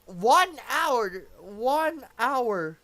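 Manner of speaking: loud, emphatic repetition; incredulous. Real, not acted. Commentator recalls Gukesh's long think, incredulous. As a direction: hammer both words in disbelief. Stunned by the game's course.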